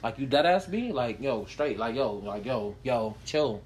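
low, soft New York tough guy; New York accent. Retold or imitated. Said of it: "the way them niggas talk".

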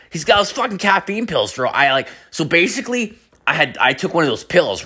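high-pitched, buzzing explanation; mock jittery friend voice; imitating wired friend. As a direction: babble like an over-caffeinated buddy.

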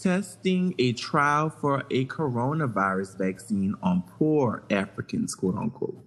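reading a news report aloud, even and steady. Acted. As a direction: read it out like a news segment. Reads news item aloud.

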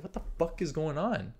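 spooked question to himself; hushed bewilderment. Retold or imitated. Man finding no one at the door, hushed bewilderment.

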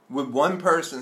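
talking around a candy in the mouth; words round a mouthful of candy; mouth full. Real, not acted. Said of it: "sorry, I'm eating candy".

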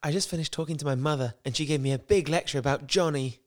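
brisk, lightly put-on Queen's English; quick amateur Queen's English reading; Queen's English accent. Lisa telling Mark about her mother, Queen's English accent. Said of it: "started out as, like, Queen's English".

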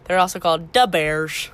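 a touch of a Chicago accent on "Bears". Shown as a demonstration. Podcast host retrying the team name, in a light Chicago accent. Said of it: "in a nice Chicago accent".

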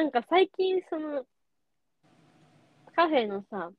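talking while eating; words round a bite of food; mouth full. Real, not acted. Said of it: "今食べながら喋って".

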